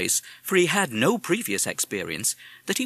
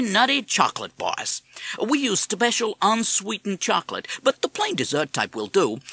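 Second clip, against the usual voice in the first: American parrot voice; 7 semitones higher, 3 dB louder than usual. Acted. Madison dictates recipe.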